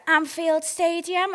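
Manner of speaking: imitated recognition. Quotes woman recognising Liverpool.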